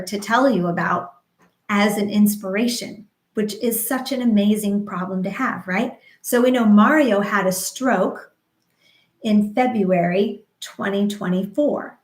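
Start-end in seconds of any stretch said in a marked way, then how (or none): none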